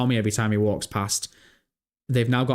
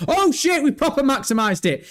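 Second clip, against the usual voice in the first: high, louder burst of real surprise; startled outburst; 13 semitones higher, 4 dB louder than usual. Real, not acted. Streamer to viewers as the screen suddenly maximises, startled. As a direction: yelp it out, caught off guard.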